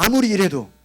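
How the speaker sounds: preacher leading a repeat-after-me; call and response. Shown as a demonstration. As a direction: say it loud for them to repeat. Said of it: "따라합시다".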